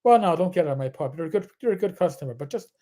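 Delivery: lightly imitated Irish pub owner; a hint of Irish accent, backing down. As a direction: relent in a light Irish brogue.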